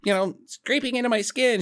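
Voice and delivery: put-on a little boy complaining to his mother; child to mom. Kid tells mom his pants don't fit, mildly whiny imitation. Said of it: "comes up to his mom and he's like".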